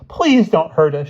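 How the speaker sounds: high, loud frightened plea; desperate high-pitched pleading; begging. A narrator's reading. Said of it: "she begged".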